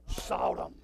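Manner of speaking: breathy whispered sought him. Acted. Preacher whispering the phrase to the congregation, hushed. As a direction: hush it to a whisper.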